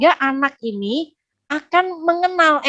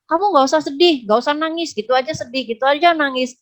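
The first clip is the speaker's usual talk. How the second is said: mock chiding in a raised pitch; dismissive scolding; 4 semitones higher than usual. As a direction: brush off someone's sadness, lightly acted. Dismissing a sad person, acted. (pura-pura mengomel meremehkan)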